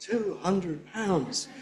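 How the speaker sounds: slow, "Two hundred pounds" all stressed; emphatic beats. Shown as a demonstration. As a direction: say it with insistence. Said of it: "when do we say that?".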